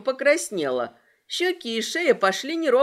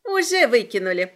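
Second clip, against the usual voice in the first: yelling after him, mocking; 6 dB louder than usual. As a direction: shout it bitterly down the corridor. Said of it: "проорала ему вслед Агата".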